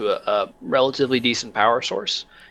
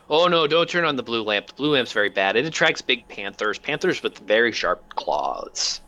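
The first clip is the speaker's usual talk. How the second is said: Claudius voice. Acted. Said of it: "and he goes".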